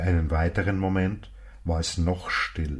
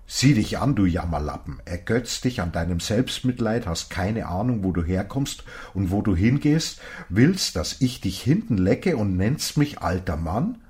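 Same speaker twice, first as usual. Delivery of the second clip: raised, louder rebuke, a touch of real anger; indignant old man; 4 semitones higher, 4 dB louder than usual. Acted. Old man scolds Johnson for calling him old, heated. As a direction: scold him like a stranger who was insulted.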